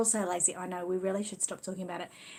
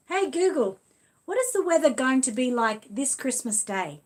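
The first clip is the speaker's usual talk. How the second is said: loud, higher, clear command to the smart speaker; talking to Google; 4 semitones higher, 6 dB louder than usual. Real, not acted. Asking the Google speaker about Christmas weather, loud clear command.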